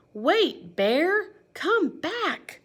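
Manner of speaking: high excited call to Bear. Shown as a demonstration. Duck calling to Bear, high and excited. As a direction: call him back, bright and high. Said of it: "So you have to say it really big".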